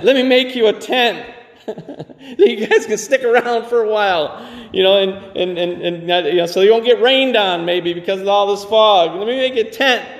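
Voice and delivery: high, laughing, eager Peter voice; Peter's eager offer. Acted. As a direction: blurt it out like flustered Peter.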